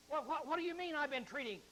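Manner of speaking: mock protest. Accused husbands answer the prophet, in mock protest. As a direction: play the accused, stumbling into a protest.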